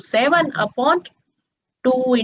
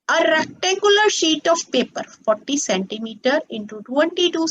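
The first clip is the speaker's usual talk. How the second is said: very slow, word-by-word question reading; slow dictation pace for the class; dictating slowly; much slower than usual. Acted. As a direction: read the problem out slowly so students can copy it. Reads the question aloud slowly.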